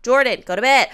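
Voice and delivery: high, loud, drawn-out angry yelling; furious yell. Real, not acted. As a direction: scream at them to stop. Yelling at sims in frustration.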